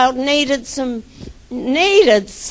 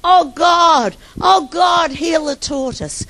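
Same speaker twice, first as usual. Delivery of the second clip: mock crying plea; 3 semitones higher than usual. Man prays over dead tortoise, mock crying plea. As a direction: imitate a desperate prayer, building on each cry.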